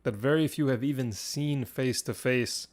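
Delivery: dramatic battle narration with suspenseful pauses; game master narration. Acted. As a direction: narrate the fight, surging on big moments and easing into suspense.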